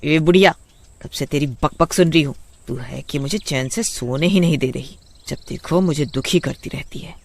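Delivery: angry retort. Acted. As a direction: snap back at the old woman. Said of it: "गुस्से में उठती है और माँ से बोलती है".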